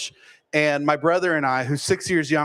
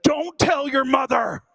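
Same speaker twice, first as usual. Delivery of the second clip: higher, slow conspiratorial dad; mock dad whisper-plea; 9 semitones higher than usual. Father to son after the shooting, slow and higher. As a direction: beg slowly, higher, don't let mom know. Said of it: "he looked at me like this and said".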